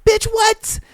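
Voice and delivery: high, sharp incredulous "what". Retold or imitated. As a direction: snap it out in disbelief. Retold disbelief at partner.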